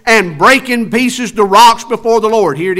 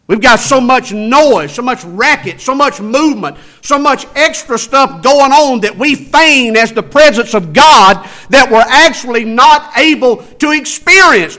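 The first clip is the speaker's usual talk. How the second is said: louder, higher preaching push; fervent preaching; 5 semitones higher, 5 dB louder than usual. Acted. Preacher to congregation railing against the noise, louder. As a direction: drive it home with force.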